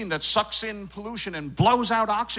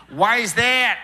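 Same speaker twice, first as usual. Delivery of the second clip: put-on high, loud Minnesota accent; 4 semitones higher, 5 dB louder than usual. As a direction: ask in a broad Minnesota accent. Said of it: "where everyone talks like this".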